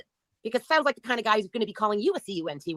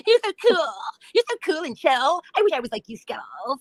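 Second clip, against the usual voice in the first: mock-admiring, pitched way up; sarcastic; 6 semitones higher than usual. Streamer mocks Skittles with sarcastic high praise. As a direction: gush with fake admiration.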